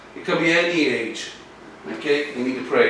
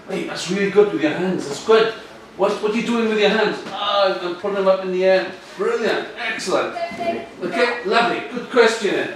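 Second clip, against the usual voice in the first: encouraging coach; 5 semitones higher than usual. Acted. Acts coach praising a child.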